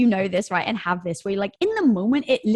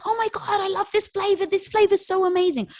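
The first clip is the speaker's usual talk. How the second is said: much higher, squealing customer rave; gushing fan; 12 semitones higher than usual. Retold or imitated. Customers raving online about the new flavor, much higher and gushing. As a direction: imitate a thrilled customer raving.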